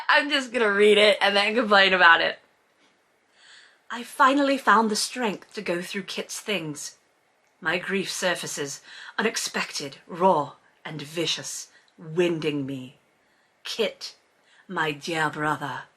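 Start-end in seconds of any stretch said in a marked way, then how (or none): 3.9-15.8 hushed, solemn fake British narration; grieving Brit, badly faked; bad British accent. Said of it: "my bad British accent the whole time".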